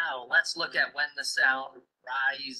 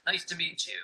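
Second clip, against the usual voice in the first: statement tune falling on "you"; falling statement intonation; 2 semitones higher, 4 dB quieter, much faster than usual. Shown as a demonstration. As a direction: let "meet you" drop away at the end. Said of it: "sound also goes down with statements".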